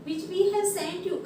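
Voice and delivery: very slow, emphatic letter reading; drawn-out classroom read-aloud. Real, not acted. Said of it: "चलो आगे पढ़ती हूँ".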